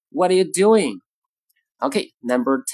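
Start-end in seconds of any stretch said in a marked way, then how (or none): 0.1-1.0 "what are you" reduced, "doing" higher and punched; stress on doing. Shown as a demonstration. Teacher shows stress landing on "doing". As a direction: hit "doing", rush the rest. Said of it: "应该落在doing上面".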